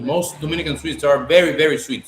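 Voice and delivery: talking through a mouthful of candy; chewing while speaking; mouth full. Real, not acted. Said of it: "speaking with my mouth full".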